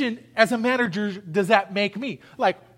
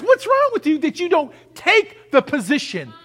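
rebuking the church; 4 semitones higher, 4 dB louder than usual. Acted. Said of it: "Let me say to the body of Christ".

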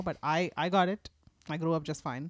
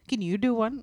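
put-on six-year-old niece; 5 semitones higher, 5 dB louder than usual. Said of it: "and then she'll ask".

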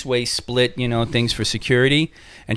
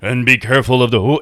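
quick, mock haunted-house guide rattling off rules; guide's spiel; 4 dB louder than usual. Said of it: "gave you the whole".

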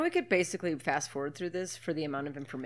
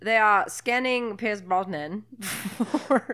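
slow, careful mock-British; bad British accent; 3 semitones higher, much slower than usual. Recapping the film, slow mock British accent. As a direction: stretch it out in a put-on British accent. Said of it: "try to talk in British accents".

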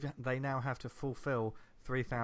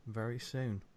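sexy radio voice. Pretend. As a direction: purr it like a late-night DJ. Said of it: "your sort of sexy radio voice".

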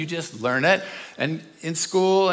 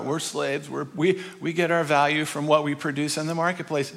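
lower, quick recital; resigned mock answer; 4 semitones lower, 3 dB quieter than usual. People answer who they think they are, resigned recital. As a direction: rattle it off low, like a learned line.

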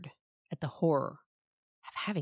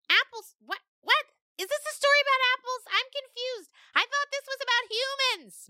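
very high, loud, fast goat voice; bleating goat; 4 dB louder than usual. Acted. Mangoat bleating at the storyteller, very high and fast. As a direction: bleat it out, confused. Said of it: "Mangoat bleated".

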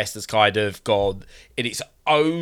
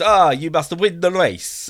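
game voice; 7 semitones higher than usual. Retold or imitated. Quoting the game's story voice.

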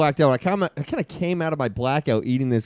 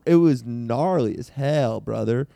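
a hint of a stoned beach bro, unhurried; surfer bro. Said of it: "Let's hear everybody's best surfer, bro".

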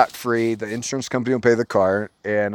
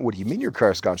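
mock-innocent surprise, swooping pitch; playing dumb; 4 dB quieter, faster than usual. Teen who took mom's key, playing dumb. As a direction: feign bafflement with an exaggerated lilt. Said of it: "I'm playing dumb".

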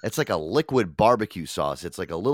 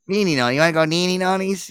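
high sing-song mom voice; lightly voiced Italian mom; imitating mom; 8 semitones higher, 4 dB louder than usual. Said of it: "my mom used".

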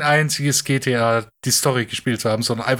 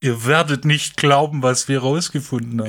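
clickbait video narrator. Retold or imitated. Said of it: "So Clickbait-Scheiße".

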